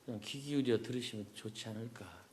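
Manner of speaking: muffled through a mask; through a face mask. Real, not acted. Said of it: "그냥 마스크 쓰고 하겠습니다". (마스크 쓰고 말하는 소리)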